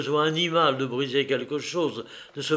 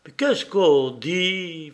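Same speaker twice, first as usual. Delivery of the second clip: choked anxiety; 3 semitones higher, slower than usual. Acted. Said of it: "étranglé par l'anxiété".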